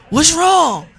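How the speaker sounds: high, loud puzzled call; startled question. Retold or imitated. Host asking houseguests at the window what's wrong, high and alarmed. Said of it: "I'm like".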